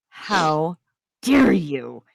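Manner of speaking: growled. Acted. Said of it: "she growled".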